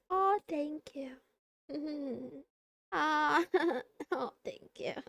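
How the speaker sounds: giggly, touched thanks; flattered laughing. Real, not acted. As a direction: laugh shyly while thanking. Flattered by chat compliment.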